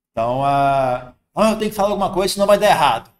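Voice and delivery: mock-anxious "I have to say something"; anxious inner voice. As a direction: blurt it out like the panicky thought. Voicing the anxious mind.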